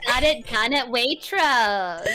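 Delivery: put-on slow, drawn-out Valley Girl. Valley girl reveals where hair was done, slow drawl. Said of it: "Can you do a Valley Girl accent?".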